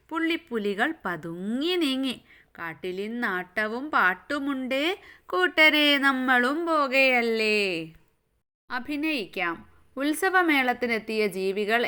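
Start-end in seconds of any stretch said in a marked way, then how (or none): 0.1-7.8 sing-song nursery verse reading; children's poem recitation. Acted. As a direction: recite rhythmically for small children, stretching each line. Recites poem lines again.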